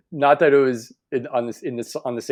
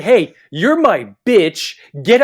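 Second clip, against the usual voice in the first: mock captain; 6 semitones higher, 7 dB louder, much slower than usual. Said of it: "he literally said".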